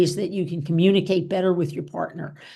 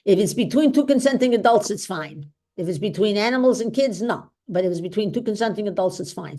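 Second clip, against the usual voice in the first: put-on Doctor Ruth's accent; 2 semitones higher than usual. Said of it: "Doctor Ruth's other wise thing that she always said".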